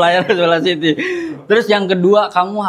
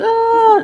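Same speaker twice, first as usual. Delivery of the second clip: mock cry; 3 dB louder than usual. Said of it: "Nangis gitu ya kan".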